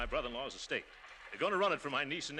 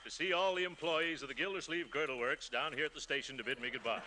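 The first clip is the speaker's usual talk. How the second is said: pompous speech; 4 dB quieter than usual. Acted.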